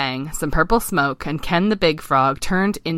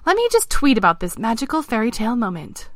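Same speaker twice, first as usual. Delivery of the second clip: high, delighted princess; high voice, slowing into tweet dictation; gushing princess; 7 semitones higher than usual. Acted. The princess tweeting about her fairy tale moment, gushing.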